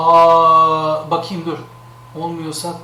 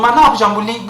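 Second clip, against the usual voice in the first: ordinary talk, nothing marked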